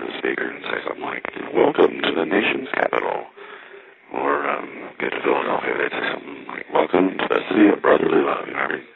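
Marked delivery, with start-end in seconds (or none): 1.6-3.3 high, upbeat train announcer's greeting; chirpy announcer. Retold or imitated. Train announcer welcoming riders into Washington, chirpy. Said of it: "chirpy little greeting". 6.7-8.5 lightly voiced chirpy train announcer; upbeat announcer. Train announcer greeting riders at Philadelphia, mildly upbeat. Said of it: "it's like this upbeat announcement".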